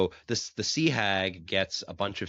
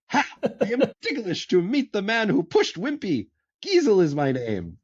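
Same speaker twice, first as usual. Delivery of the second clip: delighted cobbler; 12 semitones higher, 4 dB louder than usual. Retold or imitated.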